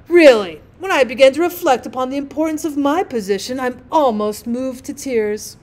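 lightly voiced pompous lecturer; self-important rocket. Rocket lectures the others on sympathy, mildly pompous. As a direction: lecture with a touch of grand self-regard.

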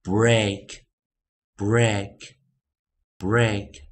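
loud, spaced-out break, rhyming with cake; irregular vowel demo. Shown as a demonstration. Teacher showing the exception to learners, deliberate pronunciation demo. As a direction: break with a long AY vowel, slow and separate. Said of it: "破音形式啊的念法".

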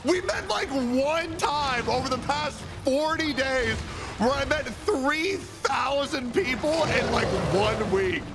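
defensive, high pitched. Real, not acted. Defensive excuse.

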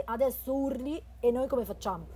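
loud exasperated complaint; exasperated shout. Acted. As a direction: scold the friend who screamed. Exasperated at friend screaming.

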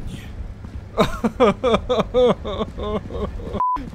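long, high burst of laughter; laughing. Real, not acted. Player left alone in the game, long high laughing. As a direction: laugh helplessly and at length.

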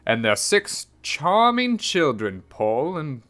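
measured picture-book reading; story narration. A narrator's reading. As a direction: read it like a children's storybook. Reads a picture book aloud.

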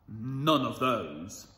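low, slow and measured; mysterious man. Acted. Mysterious bearded man refusing, low and slow. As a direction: say it like a mysterious stranger. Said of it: "said the mysterious bearded man".

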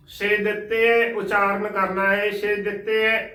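ਛੇ ਦਿੱਤੇ with short i and doubled t; ਛੇ ਦਿੱਤੇ as "she dit-te"; split as "chhe ditte". Shown as a demonstration. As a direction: say ਛੇ apart, then ਦਿੱਤੇ. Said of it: "ਸ਼ੁੱਧ ਉਚਾਰਨ".

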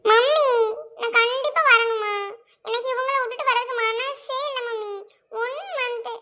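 whiny daughter begging mother; mock-reluctant whimper; fake tearful pleading. Wife fakes reluctance to leave husband.

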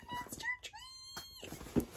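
high, slow, breaking cry of joy; tearful squeak. Real, not acted. To viewers on seeing the tree's name, a tearful high squeak. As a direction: let the voice crack up high with emotion.

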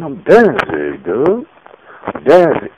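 a hint of a tough singer voice; new tough stage voice. The speaker testing a new stage voice, a hint of tough. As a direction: try out a cool stage voice. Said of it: "Don't do that voice".

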